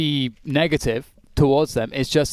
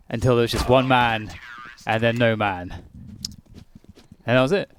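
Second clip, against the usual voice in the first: dramatic caster narration. Pretend. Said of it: "play-by-play impression".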